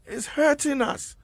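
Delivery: high, slow imitation of the vice president. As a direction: mimic the vice president's solemn delivery. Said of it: "in the vice president's voice".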